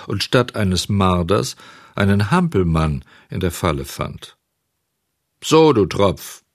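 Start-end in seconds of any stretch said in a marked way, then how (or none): 5.4-6.4 langsam und lauter, wütender Bauer. Acted. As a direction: den Dieb grimmig anfahren. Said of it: "sagte der Bauer wütend". (wütender Bauer fährt den Hampelmann laut und langsam an)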